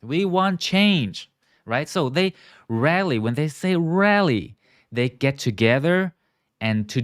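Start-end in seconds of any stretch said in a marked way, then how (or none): 0.0-1.3 higher, emphatic protest line; protesters' demand. Acted. Teacher voicing protesters to students, emphatic demand. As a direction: voice the crowd's complaint, drawn out at the end.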